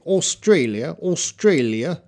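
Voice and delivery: "Australia" the Australian way, rounded AW opening, rising end; Australian pronunciation. Shown as a demonstration. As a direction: imitate Australians saying "Australia", tune lifting. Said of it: "the people from Australia say".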